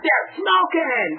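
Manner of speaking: high, slow, drawn-out outraged cry. Retold or imitated. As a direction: stretch it out in acted fury. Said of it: "And I'm so mad".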